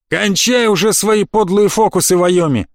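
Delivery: high, taunting elf voice; mocking elf. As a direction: jeer at him as the elf. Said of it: "послышался насмешливый голос эльфа".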